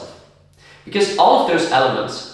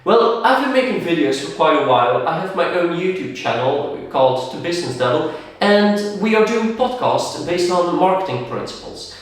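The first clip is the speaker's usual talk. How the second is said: confident. Shown as a demonstration. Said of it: "if I talk to you like this".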